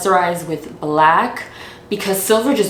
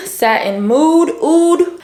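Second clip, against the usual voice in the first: drawn out; 8 semitones higher, much slower than usual. Real, not acted. Stretching the perfume name.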